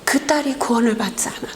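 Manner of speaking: the same words in a fast whisper; whispered echo. Retold or imitated. God's question echoing in the pastor's ears, whispered. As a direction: let the divine question echo back as a rushed whisper. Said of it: "주의 음성이 들려오는 거예요".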